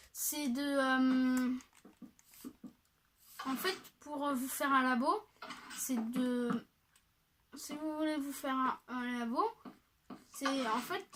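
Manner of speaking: talking with gum in the mouth; words blurred by chewing gum. Real, not acted. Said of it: "j'ai un chewing-gum dans la bouche". (avec un chewing-gum dans la bouche)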